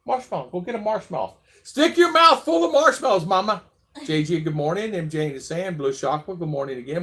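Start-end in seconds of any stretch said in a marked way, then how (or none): 1.6-3.6 playful high call. Real, not acted. Teasing wife with marshmallow.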